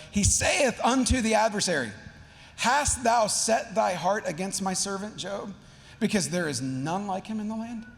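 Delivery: lightly mock-grand Shakespearean recital; Shakespearean reading. Reading a literal translation aloud, mildly Shakespearean. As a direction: give the old verse a touch of stage weight. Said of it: "you gotta get some good Shakespeare".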